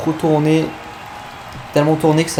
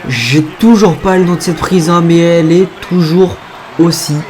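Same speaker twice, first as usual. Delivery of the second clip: wrestling commentator; 3 semitones higher than usual. Real, not acted. Awed live wrestling commentary.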